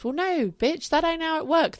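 high, sassy comeback; sassy retort. Real, not acted. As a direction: snap back with attitude. Retorting to naysayers.

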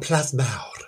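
Plasmawr said the Welsh way, ending in a rolled mawr; Welsh pronunciation. Shown as a demonstration. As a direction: give Plasmawr its Welsh sounds, plas-MAOWR. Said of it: "Did you like the accent there?".

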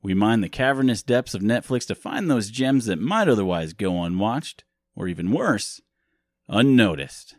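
punchy, theatrical show-host opening; podcast intro. Acted. Host welcomes listeners back to the movie podcast, punchy announcer delivery. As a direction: announce it with swooping emphasis.

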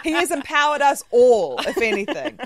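loud laugh running into the words. Real, not acted. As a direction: laugh out the line loudly. Laughing at Rob Schneider joke.

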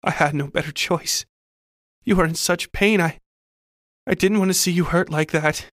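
high, anguished confession; sobbed pleading. A narrator's reading. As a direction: plead tearfully with the apparition, voice lifted. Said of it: "I sobbed at the apparition".

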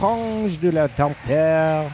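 slow made-up French; fake French. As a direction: nonsense French, drawn out. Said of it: "fake French garbage".

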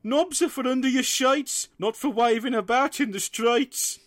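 high, sing-song scolding parent; parental lecture. Retold or imitated. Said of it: "gave me the usual lecture".

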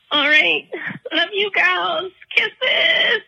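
teary goodbye. Real, not acted. Tearful sign-off with laughter.

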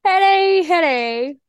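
high, loud greeting; excited shout. Real, not acted. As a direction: call it out, pumped.

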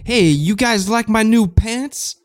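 cool cat showing off his pants; hip jazz cat voice. Acted. Plays a singer's character.

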